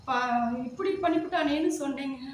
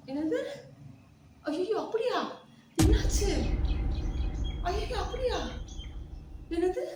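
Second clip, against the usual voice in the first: mock shock; 4 semitones higher than usual. Shocked wife on the phone.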